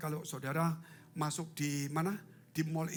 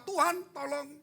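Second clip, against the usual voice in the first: crying out; 10 semitones higher, 4 dB louder, slower than usual. Retold or imitated. Sinner crying out in prayer.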